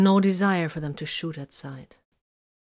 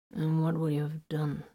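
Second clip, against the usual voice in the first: calm; 4 dB quieter than usual. A narrator's reading. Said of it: "Vox inquired calmly".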